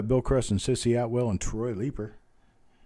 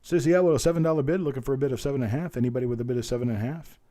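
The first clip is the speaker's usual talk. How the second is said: auctioneer's bid call; 3 semitones higher, 3 dB louder, faster than usual. Real, not acted. Auctioneer asking the online bidders for more, in quick bid-call patter. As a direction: call the bids briskly like an auctioneer.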